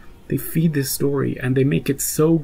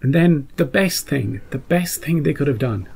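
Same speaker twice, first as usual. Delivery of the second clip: choking up. Real, not acted. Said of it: "I'm choking up".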